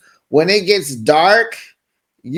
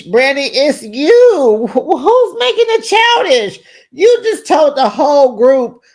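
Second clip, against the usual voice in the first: high, incredulous outburst; high whiny exasperation; exasperated high cry; 8 semitones higher than usual. Retold or imitated. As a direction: throw it back at her in disbelief. Exasperated at Brandy.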